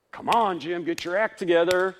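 loud, high, impatient scold; mock self-scolding. Preacher scolding himself over his failings, loud and impatient. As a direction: bark at yourself to shape up.

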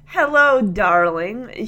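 mock sweet greeting said through gritted teeth; a hint of restrained fury behind a polite hello. Voicing the bride greeting her jailed groom through gritted teeth. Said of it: "gritting her teeth and stopping herself".

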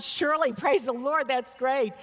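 acting out a bright, encouraging answer; upbeat reply. Acts own upbeat reply.

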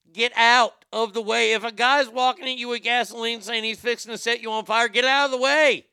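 loud, high-pitched rant building to a yell; worked-up yell, hardest on the last words; exasperated yelling. Acted. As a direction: shout the obvious at someone oblivious. Yelled advice to burn victim.

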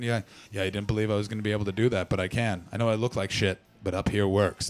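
low, mumbling old guy, lightly voiced; old man voice. Old man boasting to the comedian, low and mumbled. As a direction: grumble it like a proud old man. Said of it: "And he went".

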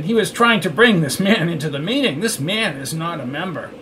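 a flustered guard pleading his case. A narrator's reading. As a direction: report to a superior, flustered. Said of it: "said the flustered man".

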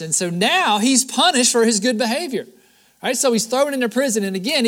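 emphatic preacher in full flow; preaching. Real, not acted. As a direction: drive the story home to the congregation. Preaches with force.

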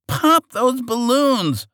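high, slow, loud villain yell; villain shout. Acted. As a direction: bellow the order like a cartoon villain. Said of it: "the Archduke shouted to his men".

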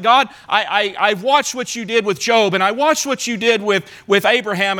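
mild protest sinking into despair; complaining psalmist. Retold or imitated. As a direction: lightly voice the accusing psalmist. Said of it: "It's like".

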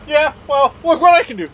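high, loud boast; imitated show-off taunt. Wrestler showing off to a fan in a wheelchair, loud boast.

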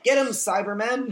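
cheering. Retold or imitated. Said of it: "We cheered".

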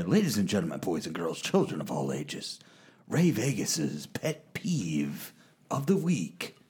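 big ringmaster announcement. Acted. Announcing the pet peeve segment.

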